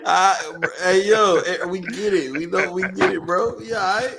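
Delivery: choking back laughter; laughing. Real, not acted. Still laughing after the joke.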